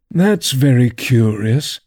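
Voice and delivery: slow and drawn out. Acted. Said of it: "drew a long breath and said".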